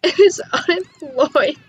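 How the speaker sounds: shocked reading. Real, not acted. Player reading the Sim's traits aloud, slow and shocked. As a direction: stretch each word out in shock.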